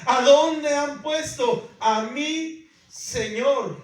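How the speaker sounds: slow, loud, high despairing cry; shouted anguish. Acted. Preacher acting María shouting at the empty tomb, slow and loud. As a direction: wail each word out slowly in despair. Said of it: "que gritaba y decía".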